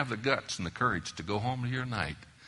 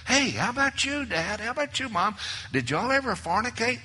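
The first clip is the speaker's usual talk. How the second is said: lightly voiced curious kids, pitched much higher; mock nosy kids; 11 semitones higher, 4 dB louder than usual. Preacher imitating his kids quizzing their parents, higher. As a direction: play the nosy children teasingly, a bit louder.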